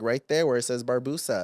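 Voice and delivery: retold offhand, matter-of-fact reply; casual. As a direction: toss it off casually, imitating an unbothered answer. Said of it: "he just said it so casual".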